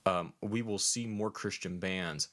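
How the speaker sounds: slow words round a burp. Real, not acted. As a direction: talk through a beer burp. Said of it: "uh, beer burp".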